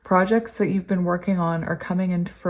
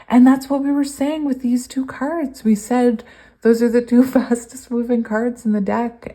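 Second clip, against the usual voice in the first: excited; 5 semitones higher, 5 dB louder than usual. Real, not acted. Excited tarot reading.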